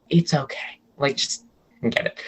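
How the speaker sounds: quietly acted brush-off; retold giving up. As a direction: let it drop, imitating giving up. Retells giving up explaining to dad.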